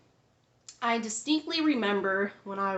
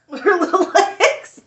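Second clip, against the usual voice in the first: much higher and louder, slow and giggly; tiny doll voice; 10 semitones higher, 16 dB louder than usual. Pretend. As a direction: squeak it out like a little Barbie. Mimicking tiny Barbie with laughter.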